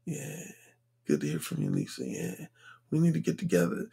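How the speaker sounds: very low, hushed smooth-talker; low, quiet seductive murmur; talking to a woman. Retold or imitated. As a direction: drop it deep and soft, sweet-talking her on the phone. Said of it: "your voice is like".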